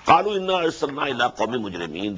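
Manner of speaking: rapid Quranic recitation; quick recitation. Acted. Teacher reciting the verse quickly before explaining. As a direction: rattle off the verse briskly.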